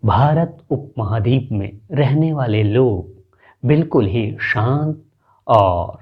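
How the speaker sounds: calm, measured narration; a light formal narrator voice; expressive reading. Shown as a demonstration. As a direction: read with weight and pauses. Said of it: "एक और देखिए".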